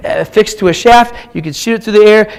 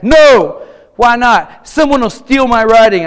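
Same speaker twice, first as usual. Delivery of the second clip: put-on louder, higher insistent kid; emphatic refusal; 5 semitones higher, 6 dB louder, slower than usual. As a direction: dig in and refuse.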